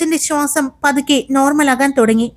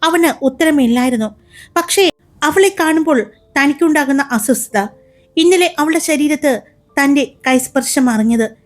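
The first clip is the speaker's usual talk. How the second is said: brisk, expressive storyteller voice; story narration. A narrator's reading. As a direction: read it like an audio drama narrator. (കഥ പറയുന്ന ശൈലി)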